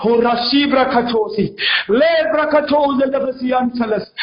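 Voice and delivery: slow measured tongues; praying in tongues. Real, not acted. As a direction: let the syllables roll slowly. Prays in tongues.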